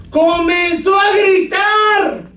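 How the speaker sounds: high, drawn-out preacher's shout. Shown as a demonstration. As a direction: shout it out and stretch the last word. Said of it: "¿Qué quiere decir gritar?".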